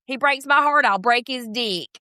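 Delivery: lightly voiced mock impression; a hint of a put-on voice; Brittany as done by the speaker. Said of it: "do an impression of Brittany".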